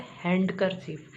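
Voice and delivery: हैंडकरचीफ with the D pronounced; common mispronunciation. Shown as a demonstration. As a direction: sound the D in हैंडकरचीफ, HAND-ker-chief. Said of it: "हैंडकरचीफ नहीं बोलेंगे".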